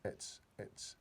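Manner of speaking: hushed, thrilled whisper; a giant whispering in wonder; breathless whisper. A narrator's reading. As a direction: whisper it in awe. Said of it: "he whispered with a thrill in his voice".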